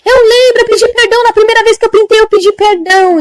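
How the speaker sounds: put-on high, pleading old woman's voice; anxious old lady. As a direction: confess nervously like a frail old lady. Old woman defending herself. (velhinha aflita, voz aguda)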